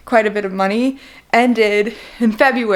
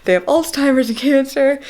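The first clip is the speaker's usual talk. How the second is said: lightly voiced caller, higher pitched; mock-aghast retelling in a higher voice; imitated agency lady; 5 semitones higher than usual. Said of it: "So she was like".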